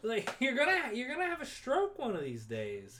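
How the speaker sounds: high, half-laughing mock plea; pleading Adrian. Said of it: "She's like".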